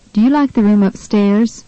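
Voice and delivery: "upstairs" stressed on its second syllable, STAIRS. Shown as a demonstration. Language tutor models a question about the room, stress on STAIRS in "upstairs". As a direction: ask it with the weight on the end of "upstairs". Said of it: "second syllable in the word upstairs is stressed".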